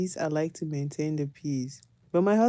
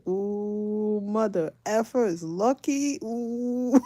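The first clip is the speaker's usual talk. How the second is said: higher, slow mock menace; imitating Kevin; 4 semitones higher, much slower than usual. Kevin threatening the man at the game, slow and pitched up. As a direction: drawl out a warning, pitched up. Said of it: "He said".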